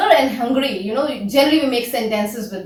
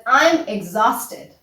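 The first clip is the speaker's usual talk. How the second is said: slow, deliberate model phrase; 3 semitones lower, much slower than usual. Shown as a demonstration. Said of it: "I say to my students that".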